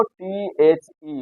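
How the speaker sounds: टीएचई drawn out letter by letter, slow and soft; slow spelling out. Shown as a demonstration. Teacher spelling out the ending slowly for students. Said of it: "किसी शब्द के अंत में क्या हो?".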